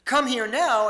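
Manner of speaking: stern command. Shown as a demonstration. Parent summoning a child in trouble, loud and stern. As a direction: order a child over, in trouble. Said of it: "you're in a lot of trouble".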